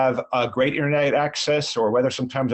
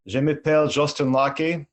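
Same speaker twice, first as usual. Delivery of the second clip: spoken French. Shown as a demonstration. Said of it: "in six different languages".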